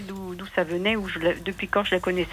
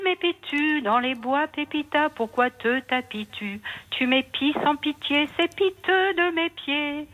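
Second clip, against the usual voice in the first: very slow, every syllable drawn out; slow motion; 5 semitones higher, slower than usual. Shown as a demonstration. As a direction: say it slowly so people can learn it. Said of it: "je peux le dire très lentement".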